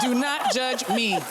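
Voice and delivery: slow words through a laugh. Real, not acted. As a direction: laugh it off while pleading. Embarrassed while cooking on camera.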